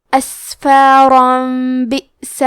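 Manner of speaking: اسفارا بئس joined slowly, the tanween turned into a light nasal م; اسفارا بئس with a humming غنہ on the م; اسفارا melting into بئس through a nasal م; iqlab demo. Shown as a demonstration. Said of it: "تنوین کو ہلکی میم میں بدل کے اور غنہ کے ساتھ".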